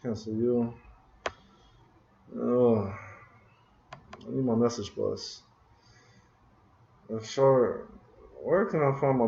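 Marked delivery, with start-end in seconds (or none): 2.4-5.4 slow, soft drawn-out whine; mock-pitiful plea for the lost class; whiny lament. Real, not acted. Whining for lost code.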